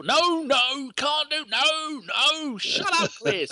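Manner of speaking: high-pitched mock protest; imitated interrupting. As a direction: talk over them in a high, squawking mimicry. Imitates co-host shouting over him.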